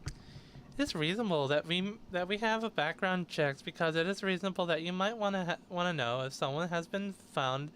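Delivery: lightly voiced Valley Girl; a hint of mock Valley Girl; Harris. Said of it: "her quotes in a Valley Girl voice".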